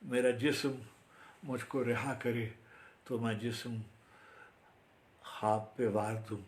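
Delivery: declaim, then bring the verse to rest; formal Urdu verse recital; poetry recitation. Acted. Recites own Urdu poem.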